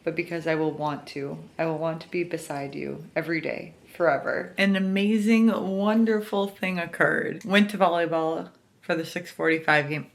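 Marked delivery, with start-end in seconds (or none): 0.0-4.5 tender reading. Acted. Reads romantic passage aloud. 7.5-10.1 talking with retainers in; slurred by retainers in mouth. Real, not acted. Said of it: "I have my retainers in".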